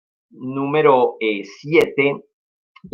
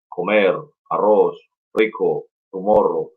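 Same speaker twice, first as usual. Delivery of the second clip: broken-English caricature; 3 semitones lower, slower than usual. Retold or imitated. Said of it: "hablando como si fueses, eh, cara pálida".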